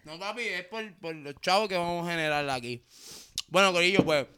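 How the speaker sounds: hablando con la boca llena. Real, not acted. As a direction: masticando y hablando a la vez. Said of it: "estoy comiéndome un chico". (con comida en la boca)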